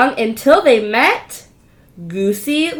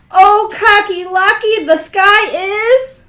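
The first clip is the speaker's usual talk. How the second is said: panicked wail; 9 semitones higher, 8 dB louder, slower than usual. Acted. Chicken Little panics.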